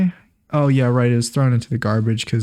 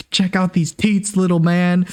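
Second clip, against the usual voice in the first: slow, higher-pitched mock boast to camera; mock Luke Skywalker; 5 semitones higher, slower than usual. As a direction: draw it out high, hamming up the character. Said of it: "looked at the camera and he's like".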